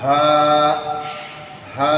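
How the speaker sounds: হা from the top of the throat, light; throat letter. Shown as a demonstration. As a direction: breathe হা from the upper throat. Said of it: "কণ্ঠনালীর শুরু থেকে বলতে হবে". (কণ্ঠনালীর শুরু থেকে হা)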